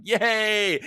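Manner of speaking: high-pitched sarcastic crowd cheer; mock cheer. Voters cheering a politician who hates them, mock cheer. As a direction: cheer high, like clueless supporters.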